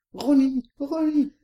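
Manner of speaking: tiny squeaky angel voice; helium. Retold or imitated. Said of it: "met een piepstemmetje".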